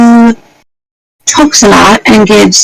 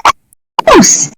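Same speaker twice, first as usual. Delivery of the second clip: much higher, bright agreement; high character voice; 8 semitones higher than usual. Acted. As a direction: answer in a lifted character voice. Player answers in character voice.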